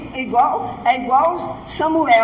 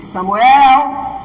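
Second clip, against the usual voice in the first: louder divine call; 7 dB louder than usual. Retold or imitated. Voice of God calling.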